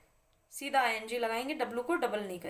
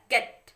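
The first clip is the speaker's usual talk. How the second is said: गेट isolated and punched loud; single out गेट with firm weight; stressed syllable alone; 6 dB louder, much slower than usual. Shown as a demonstration. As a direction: give just the stressed गेट, emphatically. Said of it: "इस पे आ रहा है".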